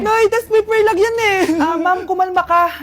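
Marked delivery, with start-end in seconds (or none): 0.0-1.4 louder, higher desperate plea; pleading yell. Acted. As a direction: beg mom to stop. Son pleading with angry mother. (pasigaw na pakiusap sa nanay)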